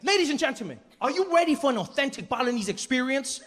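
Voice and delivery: high-pitched showman announcer; hammed-up ringmaster introduction; Deng Basan. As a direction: present the act grandly, stretching the last words. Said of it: "he looks at us and he's like".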